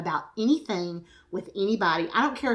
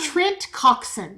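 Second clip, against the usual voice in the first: slow, higher mock announcer sign-on; fifties radio voice; 6 semitones higher, 4 dB louder, much slower than usual. Co-host inventing a weird announcer name, fifties radio voice. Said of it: "They always had weird names".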